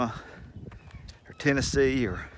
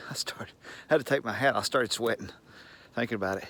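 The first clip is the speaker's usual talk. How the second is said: whispered aside; 6 dB quieter, faster than usual. Real, not acted. Sweaty aside while walking outside.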